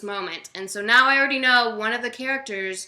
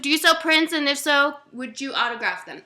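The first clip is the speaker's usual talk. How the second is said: hurried reading of a question, pitched up; rushed read-out; 5 semitones higher, 5 dB louder than usual. Real, not acted. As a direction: read it out quickly and loudly. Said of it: "Try to read that as fast as possible".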